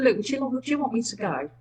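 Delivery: softly and politely asked; said really nicely. Retold or imitated. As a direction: ask gently, offering to leave. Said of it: "I said really nicely".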